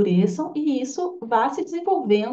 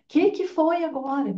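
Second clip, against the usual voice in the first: impatient; 5 semitones higher than usual. Retold or imitated. Impatient parent to crying child.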